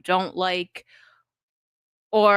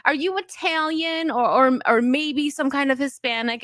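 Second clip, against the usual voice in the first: higher-pitched hint of a Russian accent; attempted Russian accent; 6 semitones higher than usual. Streamer imitating a middle school classmate's question, attempted Russian accent. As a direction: play the Russian kid asking, accent only half there. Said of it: "I can't do a good Russian accent".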